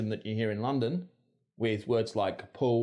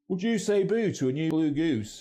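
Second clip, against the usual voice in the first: Mancunian accent, slightly raised pitch; Manchester; 4 semitones higher than usual. Shown as a demonstration. Presenter comparing goose vowels, in Mancunian. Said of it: "We also hear this in Manchester".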